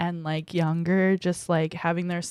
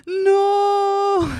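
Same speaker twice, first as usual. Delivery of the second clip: sudden high shouted no; loud shout; 12 semitones higher, 5 dB louder than usual. Real, not acted. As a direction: throw out a loud, high protest. Dreading nursing home joke.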